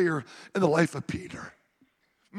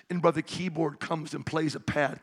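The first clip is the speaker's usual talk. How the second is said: ordinary delivery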